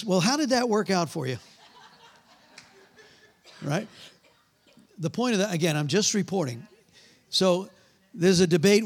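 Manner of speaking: normal talking voice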